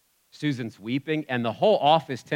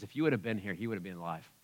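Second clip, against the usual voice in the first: grieving sister; 5 semitones lower, 11 dB quieter, faster than usual. Retold or imitated. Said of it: "weeps and says".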